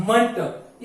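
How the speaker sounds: मंट said as a short "munt"; correct ment ending. Shown as a demonstration. Teacher giving the correct pronunciation, plainly. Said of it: "correct pronunciation is".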